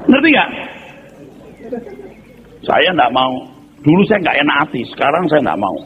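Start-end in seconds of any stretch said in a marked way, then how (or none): none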